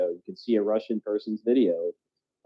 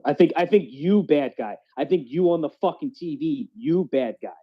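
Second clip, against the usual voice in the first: put-on Russian accent. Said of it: "I'm doing the Russian accent".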